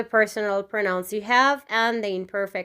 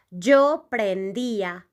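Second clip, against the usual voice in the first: slow model pronunciation. Shown as a demonstration. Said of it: "conjugate this verb in this way".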